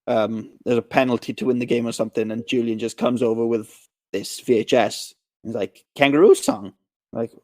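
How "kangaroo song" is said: lightly voiced whiny kid; a hint of a whining child's demand. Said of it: "This horrible whi-, whiny voice".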